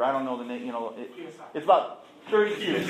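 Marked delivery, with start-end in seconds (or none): 1.5-2.8 laughing. Real, not acted. Doctor's liver number, laughing.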